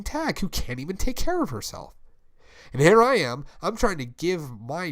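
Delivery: pleading, rising to a pained outburst; a friend cracking as he lists every betrayal; breaking down. Acted. Friend accusing Nick of abandoning him, building to a raw outburst. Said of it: "at this point is when he's breaking".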